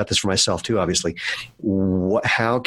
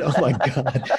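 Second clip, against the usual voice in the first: laughing; 6 semitones higher, slower than usual. Retold or imitated. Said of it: "I said".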